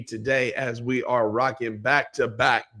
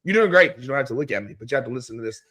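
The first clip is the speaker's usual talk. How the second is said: hoarse, scratchy losing voice. Real, not acted. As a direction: talk through a raspy, worn-out voice. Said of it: "this scratchy voice".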